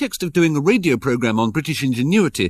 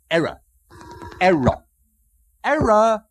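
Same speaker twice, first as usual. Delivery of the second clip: exasperated; 9 semitones higher than usual. Real, not acted. Frustrated repeated error commands.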